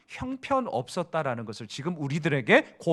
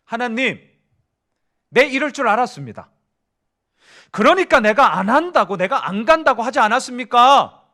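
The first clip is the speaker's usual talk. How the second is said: higher, louder sulky protest to God; Jonah's complaint; 5 semitones higher, 8 dB louder than usual. Acted. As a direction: whine at God that you knew it all along. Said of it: "한 문장으로 딱 정리를 했습니다. 들어보세요". (요나가 하나님께 높고 크게 투덜대며 항의)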